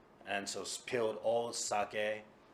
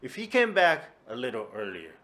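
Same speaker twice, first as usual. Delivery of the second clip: indignant; 9 dB louder than usual. Acted. Drunk Kuma blaming Tora-san.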